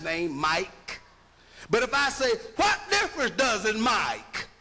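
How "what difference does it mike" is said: Southern pronunciation of make. Shown as a demonstration. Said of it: "the way she was saying".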